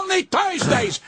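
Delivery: high, slow, outraged shout of the phrase; indignant shout. Real, not acted. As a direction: bellow it in disbelief. Ranting at Gilbert's billing.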